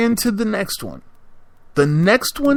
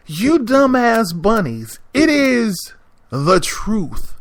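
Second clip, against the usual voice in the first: teasing scold; 7 semitones higher, slower than usual. Real, not acted. Scolding the audience.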